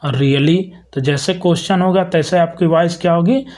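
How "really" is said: really, the voice climbing on the last syllable; rising tone. Shown as a demonstration. Teacher repeating the example for students, rising. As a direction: let really float up as a question. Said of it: "rise हो जाएगी".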